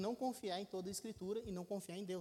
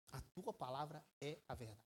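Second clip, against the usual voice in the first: much lower and far softer, almost breathed out; hushed solemn close; 7 semitones lower, 10 dB quieter than usual. Acted. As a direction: drop right down to a hush on the truth. Repeats verse after buildup.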